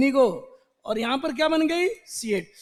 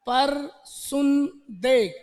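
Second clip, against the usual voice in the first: coaxing persuader; much slower than usual. Acted. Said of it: "चल, चलो बताओ".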